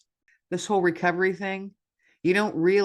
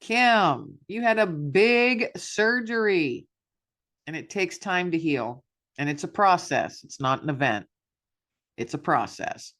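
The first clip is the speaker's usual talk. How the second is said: reassuring self-talk. Retold or imitated. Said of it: "I remind myself".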